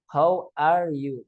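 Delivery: How are you slowly, English r; slow English greeting; English phrase. Shown as a demonstration. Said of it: "Bukan how are you".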